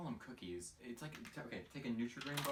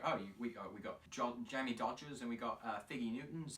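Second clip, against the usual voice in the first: louder, hammed-up British accent; mock British accent; 4 dB louder than usual. Mocking Fig Newtons as a British treat, mock British accent. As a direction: play a jolly British snack seller, lightly. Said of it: "It sounds like a British thing where it's like".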